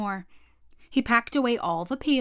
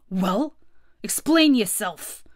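demanding gorilla; slower than usual. Acted. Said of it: "said the gorilla".

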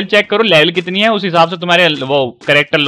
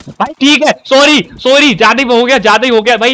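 high apologetic pleading; 5 semitones higher, 4 dB louder than usual. Real, not acted. Apologizing after overdoing it.

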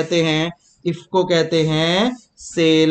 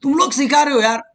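mock praise; 7 semitones higher, much faster than usual. Teacher mock-praises students.

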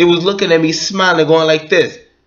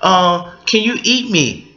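mock chips voice; 5 semitones higher than usual. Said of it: "And it told me".

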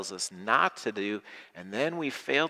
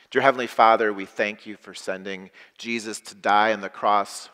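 prayer. Acted. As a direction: pray it aloud for all. Leads congregation in prayer.

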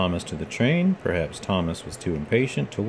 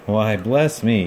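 dismayed surprise; 4 dB louder, slower than usual. Acted. Thomas realises his mistake.

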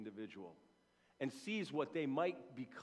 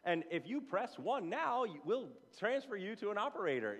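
mock robocall voice; 4 semitones higher than usual. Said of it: "always a recorded line".

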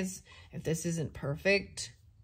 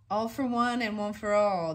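obliging prompt, a bit louder; helpful sentry voice; 3 semitones higher, 5 dB louder than usual. Acted. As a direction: help him out kindly. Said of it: "the voice said, obligizing".

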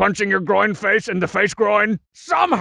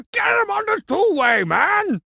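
excited shout. Acted. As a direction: yell it out like calling a buddy over. Excited call to the cheat.

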